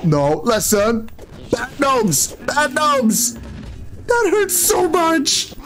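high squeaky scolding of the gnomes; high mock scolding. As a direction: whine in a high pained voice. Scolding gnomes attacking him.

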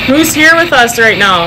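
calling out. Real, not acted. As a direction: call into the dark room. Calling spirit, louder.

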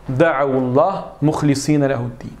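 Da'awullah with the waw joined by a short u; Quran recitation demo. Shown as a demonstration. Teacher modelling the verse for students. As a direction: recite Da'awullah smoothly linking into llah. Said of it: "On casse la soukoun avec une dhamma".

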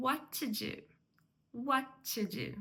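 "What to do" with "to" squeezed to a tiny schwa; reduced "to". Shown as a demonstration. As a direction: skim over "to" between "What" and "do". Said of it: "дуже-дуже коротенький". (коротеньке "to", майже без голосного)

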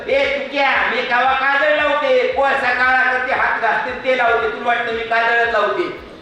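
Muktai's voice. Acted. Muktai scolding Tukaram teasingly.

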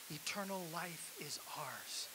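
slow whispered promise. Acted. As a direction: breathe it like a secret. Preacher drops to intimate aside.

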